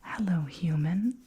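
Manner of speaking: teasing, close-up whisper with a rising end; hushed, playful greeting; whisper into ear. Acted. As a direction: murmur it right into the ear. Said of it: "when you whisper things inside of them".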